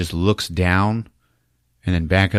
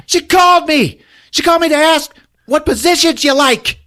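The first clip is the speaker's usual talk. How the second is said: high, loud, breaking into laughter; laughing mock protest; 8 dB louder than usual. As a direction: shout the excuse while cracking up. Dolph defends himself, laughing.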